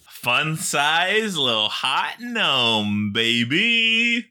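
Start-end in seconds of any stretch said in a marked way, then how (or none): 3.1-4.3 high, loud and sassy; sassy high baby. Acted. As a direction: squeal the word out. Hyping the hot gnome.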